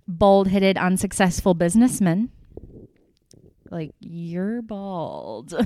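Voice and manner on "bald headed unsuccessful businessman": mocking quote. Mocking Michael's insult.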